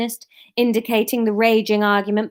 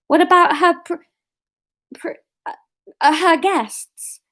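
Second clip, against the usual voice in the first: character voice; 8 semitones higher, 5 dB louder than usual. Acted. Asmar asks.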